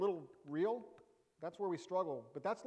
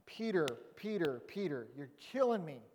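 exasperated Jesus. Retold or imitated. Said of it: "I can just imagine Jesus going".

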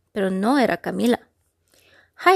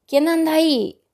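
higher, loud pirate roar; booming thunder voice; 6 semitones higher, 3 dB louder than usual. Acted. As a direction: boom it across the deck. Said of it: "tronó la voz del pirata".

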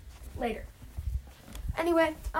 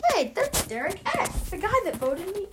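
Christian; 8 semitones higher than usual. Acted. Christian spotting Derek X on the challenge, mock-outraged realization. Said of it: "when Christian realizes".

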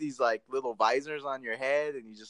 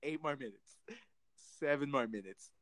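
hushed, impatient counting to oneself; muttered inner countdown; 2 semitones lower, 10 dB quieter than usual. Retold or imitated. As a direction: count down under your breath, with gaps. Retold silent countdown during smelly ride.

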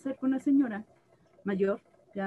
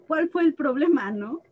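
shocked; 5 semitones higher, 6 dB louder than usual. Retold or imitated. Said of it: "Sí me quedé como en shock".

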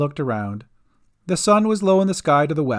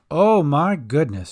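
gasping in wonder. Acted. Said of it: "she gasped".

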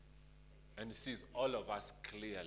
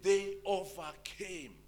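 quoting scripture; 3 semitones higher, 5 dB louder than usual. Acted. Pastor reading Revelation to the church, declaiming. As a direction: proclaim the verse with weight. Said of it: "And he said".

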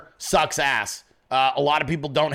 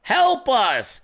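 shouted headline; 6 semitones higher than usual. Retold or imitated. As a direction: read it like all caps. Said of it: "in all caps".

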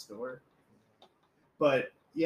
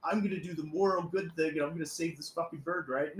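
higher, louder self-important boast; mock heroic; 4 semitones higher, 4 dB louder than usual. Clerk boasting he'll save the bird, mock heroic. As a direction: puff up like a hero. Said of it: "And I, and I was like".

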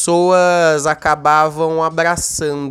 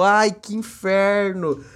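real irritation; 3 semitones higher, much slower than usual. Real, not acted. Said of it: "eu tô bravo mesmo".

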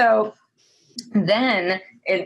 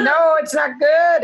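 loud, high emphatic no; loud agreement; 8 semitones higher, 4 dB louder than usual. Real, not acted. Agreeing emphatically with co-host about film, loud and high.

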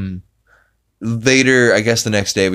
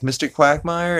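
higher questioning call; timid calling; 9 semitones higher than usual. Retold or imitated. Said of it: "she's like".

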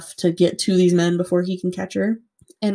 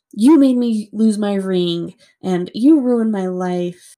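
retold yelling; 3 dB louder, slower than usual. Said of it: "he starts yelling at".

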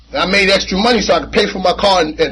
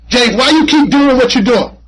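questioning voice; 6 semitones higher, 4 dB louder than usual. Retold or imitated. Recovery talk, voicing someone questioning him.

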